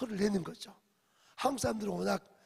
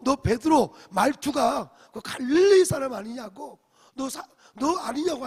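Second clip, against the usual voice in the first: loud, higher, slow accusing cry; accusing shout; 5 semitones higher, 14 dB louder than usual. Retold or imitated. Servant girl accuses Peter of being a disciple, loud shout. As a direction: hurl the accusation at him.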